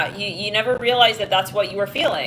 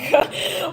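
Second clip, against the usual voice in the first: laugh; 5 semitones higher than usual. Real, not acted. Laughing after her yuck.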